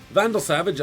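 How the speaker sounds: hammed-up accent; Mirror Master's accent. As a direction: announce the name in a villain's accent. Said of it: "I'm not gonna do the accent".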